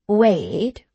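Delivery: one long, swelling word; musing patriarch. A narrator's reading. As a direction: stretch the name out ponderously. Patriarch repeats name.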